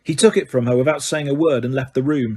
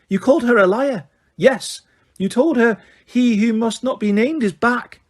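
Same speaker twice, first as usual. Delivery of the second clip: brisk, higher, stern McGonagall; snapped; 8 semitones higher, 3 dB louder than usual. A narrator's reading. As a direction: snap at the student. McGonagall questioning.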